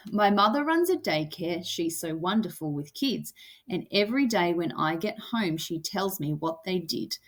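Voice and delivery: lightly bouncing, regular beat; sing-song poem reading. Shown as a demonstration. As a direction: read the verse with a gentle boppy rhythm. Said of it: "sing-songy, kinda like a song".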